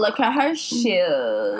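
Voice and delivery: mock Valley girl. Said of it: "easy to do Valley Girl".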